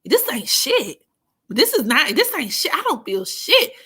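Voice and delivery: friend's quote. Retold or imitated. Friend mocking the edible after ten minutes, dismissive. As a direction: mimic her scoffing that she feels nothing. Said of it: "She was like".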